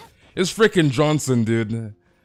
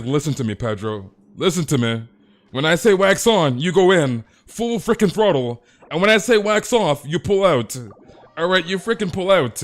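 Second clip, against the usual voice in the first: higher, louder hammed-up sensei pep talk; mock Miyagi coach; 4 semitones higher, 5 dB louder than usual. Mark ordering Pedro through the earpiece, loud mock sensei commands. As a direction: bark orders like a mock karate master. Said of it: "He's like".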